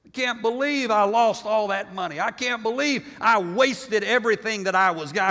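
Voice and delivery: hammed-up crying disbelief; mock tearful regret. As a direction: lament it like a sinner bemoaning the loss. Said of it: "you're crying".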